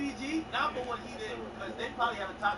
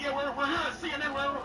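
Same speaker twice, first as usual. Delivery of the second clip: reporter; 6 semitones higher, 3 dB louder than usual. Retold or imitated. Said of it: "the fucking reporter called me".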